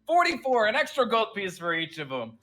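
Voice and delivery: jovial officer, booming and generous; generous general. Acted. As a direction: hand out the gold grandly, upping the sum. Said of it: "he, he's like".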